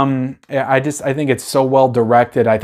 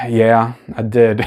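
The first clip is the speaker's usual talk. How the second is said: reluctant admission; 3 semitones lower, slower than usual. Retold or imitated. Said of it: "he doesn't wanna say it".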